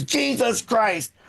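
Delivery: lightly voiced exasperated old man; drawn-out grumbled curses, imitating father-in-law; grumpy father-in-law. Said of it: "to a backdrop of Doctor Phil is".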